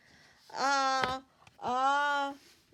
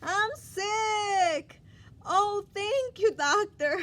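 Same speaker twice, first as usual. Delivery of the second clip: higher and louder, thrilled to be told he's sick; happy and excited; 5 semitones higher, 5 dB louder, slower than usual. Acted. Elephant thanking Doctor Cat for the cold, delighted. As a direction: gush your thanks.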